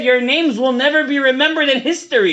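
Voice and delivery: never pushed hard and falling; repeated warning, never stressed. Retold or imitated. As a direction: lean on the word never in the quote. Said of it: "I swear, he said".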